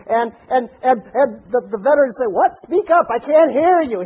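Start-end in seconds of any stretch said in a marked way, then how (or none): 2.3-4.0 high, projected call to speak up; raised for everyone. Acted. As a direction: act the vet calling out so the whole room hears. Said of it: "He wanted everybody to hear".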